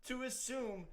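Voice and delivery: high-pitched mock offense; mock indignation. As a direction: play the outraged Irishman for laughs. Mock outrage as offended Irishman.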